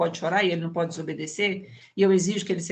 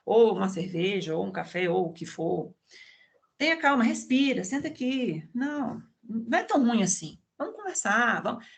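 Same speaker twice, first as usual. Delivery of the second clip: gentle comforting. Retold or imitated. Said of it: "Você vai dizer".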